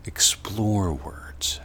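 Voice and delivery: very slow, whispered. Shown as a demonstration. Teacher urging students to explore words, slow whisper. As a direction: breathe the words out slowly. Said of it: "Explore words in this way".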